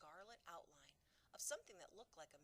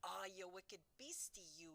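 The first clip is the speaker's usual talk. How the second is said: louder scolding cry; 4 dB louder than usual. Acted. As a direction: scold the beast in the jar. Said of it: "he cried".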